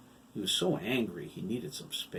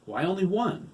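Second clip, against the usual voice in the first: puzzled; 10 semitones higher, 7 dB louder than usual. A narrator's reading. Todd questioning.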